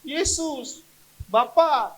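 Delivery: high, loud cries with pauses; shouting. Shown as a demonstration. Preacher shows the stressed how to shout to Jesus. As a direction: call out each name loud and high. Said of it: "Teriak saja kepada Tuhan Yesus".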